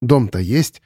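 ordinary delivery, nothing marked

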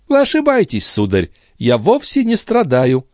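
put-on high, proud voice of a noble girl; haughty young lady. A narrator's reading. Andrea rebuffs Gilbert, haughty and defiant. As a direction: deny it coldly and proudly.

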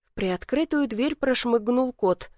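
usual speaking voice

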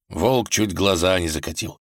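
ordinary delivery, nothing marked

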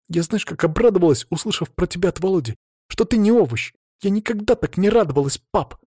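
put-on a teen girl telling her dad what happened; hint of a hurt young daughter; teenage daughter. Tonya pours out her hurt.

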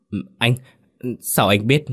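halting, caught-out stammer; mildly shaken stammer; stammering in shock. Acted. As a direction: stumble over the words, stunned. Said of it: "chết lặng mà lắp bắp".

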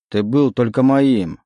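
possessive. Acted. Legion claims Oleg, slow and possessive. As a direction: lay claim to him.

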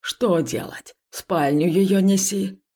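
a grumpy spirit bossing him about; rustling grumpy voice. Acted. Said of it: "прошелестел ворчливый голос".

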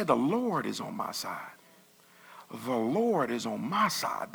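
slow, deliberate "The Lord is on my side." with weight on each word; firm, slow declaration; declaring it. Shown as a demonstration. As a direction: say "The Lord is on my side." slowly like you mean it. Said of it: "sometimes you need to say".

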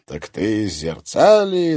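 slow, loud exclamation of realisation; sudden realisation. A narrator's reading. Interrogator realising where the woman is from. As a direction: catch on and call it out. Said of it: "воскликнул первый допросчик".

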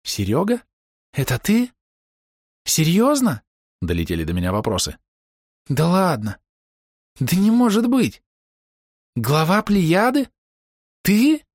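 can't believe it, rising in shock; shocked disbelief. Acted. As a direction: friend stunned at the reveal. Fan realizes friend's identity.

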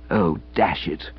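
a soft, whispered "Oh, dash it"; "Oh, dash it" whispered, falling away; dejected mutter. Acted. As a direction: breathe "Oh, dash it" out in defeat. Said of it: "good saying, 'Oh, dash it.'".

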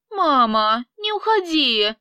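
lightly voiced little girl, pleading; a small child begging; child's voice. Daughter begging her mother to stay, child's plea. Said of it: "детский голосок".

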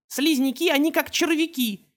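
put-on high child voice, proud; little boy declaring. Beckett tells the class about slugs, high child voice. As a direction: announce it like a small boy. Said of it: "заявил Беккет".

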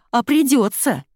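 loud, high furious yell. A narrator's reading. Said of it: "заорала Ира".

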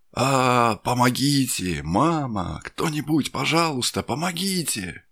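terrified cries for help, pitched high; screaming for help in a nightmare; waking from a nightmare. Acted.

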